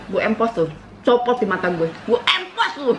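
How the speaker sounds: hammed-up threatening mum; mock scold, rising on the last threat; imitating angry mother. Daughter imitating mother's angry threat, hammed-up scold. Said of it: "bisa tiru mamaku marah".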